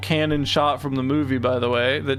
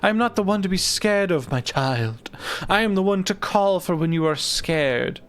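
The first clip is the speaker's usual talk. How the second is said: lightly voiced, dignified sphinx; proud sphinx guardian; 3 semitones higher than usual. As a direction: proclaim titles like an ancient guardian.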